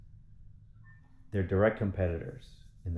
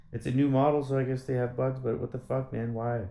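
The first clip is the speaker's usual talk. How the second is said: frustrated rant; 6 semitones higher, 4 dB louder than usual. Real, not acted. Venting at dealership bugs.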